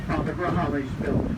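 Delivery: ordinary delivery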